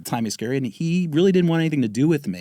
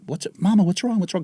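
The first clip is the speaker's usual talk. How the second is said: imitating nurse; 7 semitones higher than usual. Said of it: "a black nurse came out and said".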